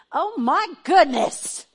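high, loud, slow gasping delight; overjoyed surprise. Real, not acted. Pastor spotting dear old friends, high delighted surprise. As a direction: squeal it out in happy shock.

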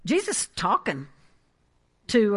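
ordinary talk

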